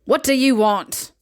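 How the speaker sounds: loud, hostile challenge; loud demand. Acted. Rich neighbor confronting the hungry boy at her door, loud. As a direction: bark it at the intruder.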